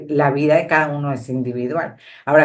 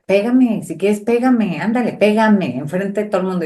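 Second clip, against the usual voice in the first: insolent taunting; 4 semitones higher than usual. Retold or imitated. Daughter daring her angry father to hit her, defiant. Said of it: "una niña insolente".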